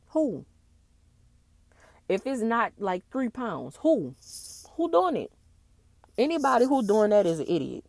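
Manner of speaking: loud, incredulous outburst; real indignation. Real, not acted. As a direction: throw the question out loudly in disbelief. Scoffing at police's drug deal story.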